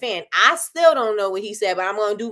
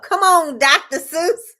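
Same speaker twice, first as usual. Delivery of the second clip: much higher and louder, laughing hype; playful shout of self-praise; excited hype; 7 semitones higher, 6 dB louder, slower than usual. Real, not acted. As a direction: cheer yourself on, laughing. Hyping herself up about her rhyme.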